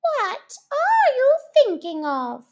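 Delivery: high, loud stern question; severe. Acted. Mouse scolding Alice, high and stern. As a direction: demand an answer sharply. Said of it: "said the mouse to Alice severely".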